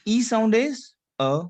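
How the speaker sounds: "a" as a neutral uh, said slowly; French schwa E. Shown as a demonstration. Teacher has class repeat the E sound, French schwa E. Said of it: "Now, répétez après moi".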